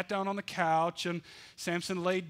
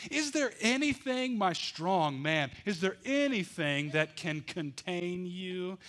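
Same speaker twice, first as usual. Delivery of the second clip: flattering Delilah; 3 semitones higher than usual. Acted.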